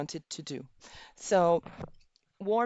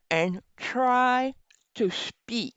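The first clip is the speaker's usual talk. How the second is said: talking around a pen in the teeth; 4 semitones higher, slower than usual. Shown as a demonstration. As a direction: speak with a pen between the teeth. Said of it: "with the pen in your mouth".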